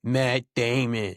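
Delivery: a drawn-out, slow Matt Damon name call. Retold or imitated. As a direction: stretch the name out slowly like a movie line. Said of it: "every role Matt Damon has ever had".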